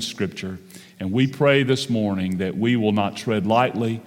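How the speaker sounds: pastoral prayer. Acted. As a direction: pray reverently to the congregation. Leads congregation in prayer.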